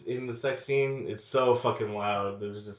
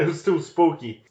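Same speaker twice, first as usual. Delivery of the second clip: spooked American; 6 semitones higher, 7 dB louder than usual. Retold or imitated.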